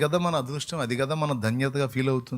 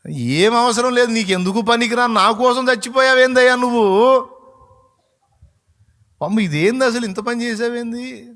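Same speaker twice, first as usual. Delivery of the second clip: anguished outcry; 9 semitones higher, 9 dB louder than usual. Real, not acted. Preacher cries out to Jesus in wonder, high and loud. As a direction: cry out to God, overwhelmed by his sacrifice.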